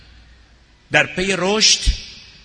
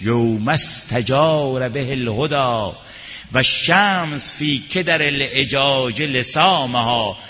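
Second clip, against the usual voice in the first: recited verse; 3 dB louder, slower than usual. Acted. Preacher recites Arabic verse.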